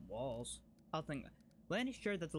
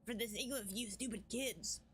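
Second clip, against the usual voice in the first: lightly voiced fierce tribeswoman; character voice; 6 semitones higher than usual. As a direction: read it as a proud, wary warrior. Voicing Wenduag's dialogue.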